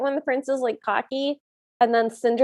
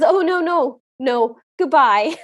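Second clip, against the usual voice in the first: alarmed refusal; 2 semitones higher, 5 dB louder, slower than usual. Retold or imitated. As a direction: back away fast with a loud, drawn-out goodbye. Prince rejects a winking lady.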